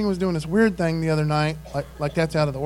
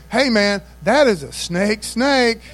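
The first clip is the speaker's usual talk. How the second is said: louder, emphatic mock alarm; playful, louder astonishment; impressed warning; 3 semitones higher, 5 dB louder, slower than usual. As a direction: point out something huge, punching the words. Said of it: "if it was a big monster mammoth snake".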